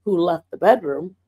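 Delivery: lightly voiced Lord, low and pointed; imitating God correcting her; the Lord's frank voice. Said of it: "this is how he talks to me".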